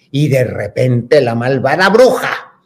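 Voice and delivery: slow, suspenseful storyteller build; record storyteller. Retold or imitated. Imitating the record introducing the witch, slow storyteller. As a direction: draw it out toward the villain. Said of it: "y luego dice".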